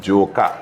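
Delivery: Joker with a French-style ZH and a dropped r; Joker in his accent. Shown as a demonstration. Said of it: "How you say joke in an accent?".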